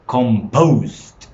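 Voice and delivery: "Composed" with loud, long POSED; stress on second syllable. Shown as a demonstration. Teacher testing the class on stress, loud com-POSED for "Composed". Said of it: "Which one is the stressed syllable?".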